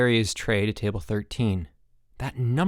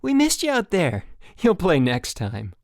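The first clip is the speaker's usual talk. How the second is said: high, bright, then slowing; sunny counselor reassurance; cheery pep talk; brightly; 8 semitones higher, 4 dB louder than usual. A narrator's reading. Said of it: "said Chip brightly".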